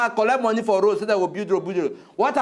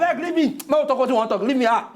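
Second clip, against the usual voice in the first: higher, laughing brush-off; laughing "leave me out"; exasperated laugh; 5 semitones higher than usual. Real, not acted. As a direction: wave him off with a laugh.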